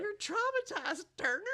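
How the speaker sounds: high, loud, slow teasing. Real, not acted. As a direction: tease him with a laugh. Teasing the exhausted host.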